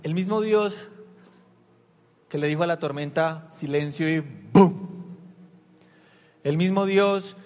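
full-force preacher crescendo; fiery preaching. Acted. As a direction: preach it with rising power.

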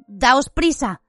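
tensión leve, tono más agudo; muy tensa. Acted. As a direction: apremia a tus amigos con voz algo alta. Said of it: "les dijo muy tensa". (tensa, apremiante)

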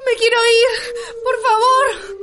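crying, begging to go home; teary begging; tearful plea. Acted. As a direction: sob it out. Terrified woman begging to leave.

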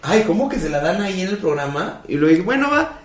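retold disbelief. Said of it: "Y yo dije".

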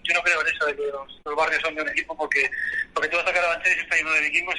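muffled voice over the phone; voice from beyond the grave. Real, not acted. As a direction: talk down a bad phone line. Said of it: "Esta voz de ultratumba que está aquí".

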